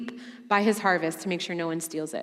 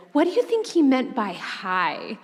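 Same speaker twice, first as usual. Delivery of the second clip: slow, higher, fretful wondering; lovestruck overthinker; 4 semitones higher than usual. Retold or imitated. Dating woman asking friends about a text, slow and fretful. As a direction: agonize over one little word. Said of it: "I'd be like".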